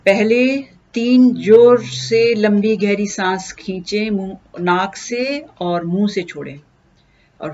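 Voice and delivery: unhurried instruction with long pauses; guided meditation. Acted. Teacher leading listeners into breath meditation, calm guided delivery. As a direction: guide them gently into stillness, pausing between steps.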